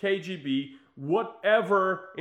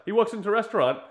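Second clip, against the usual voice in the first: ordinary talk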